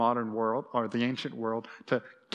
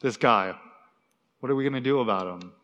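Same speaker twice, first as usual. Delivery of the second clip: mock complaining; 4 semitones lower, faster than usual. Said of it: "they're complaining".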